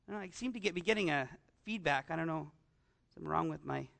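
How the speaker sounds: muttered off-mic aside; aside about mic. Real, not acted. Preacher distracted by feedback, quietly talking to himself. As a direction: drop out of the sermon to fuss with the mic. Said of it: "Maybe I'm just too loud".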